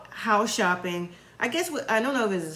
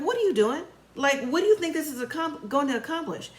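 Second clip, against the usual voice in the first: imitating an indignant challenge, higher pitched; confrontational; 5 semitones higher than usual. Eric confronting the women who followed him, mock indignant. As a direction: demand an explanation, voice raised in pitch.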